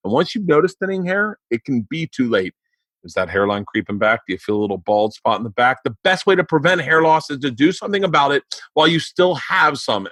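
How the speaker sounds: upbeat sponsor read, selling it; friendly, brisk host-read commercial; podcast ad read. Acted. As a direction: pitch the product like a host-read ad.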